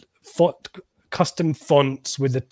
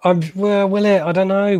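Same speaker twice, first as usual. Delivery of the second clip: incredulous; 8 semitones higher, 4 dB louder than usual. Real, not acted. Doubting a sales claim.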